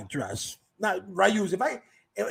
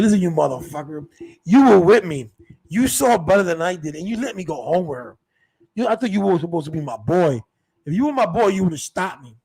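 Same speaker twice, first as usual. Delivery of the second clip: indignant, with loud bursts; acted-out scolding of a friend who let you down; retold telling-off; 6 dB louder than usual.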